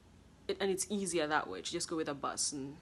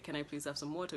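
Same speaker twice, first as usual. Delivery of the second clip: polite request; faster than usual. Retold or imitated. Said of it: "we don't say".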